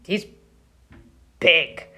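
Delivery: a hint of a cunning goat; sly middle goat. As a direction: talk the troll out of it. Middle goat stalls troll.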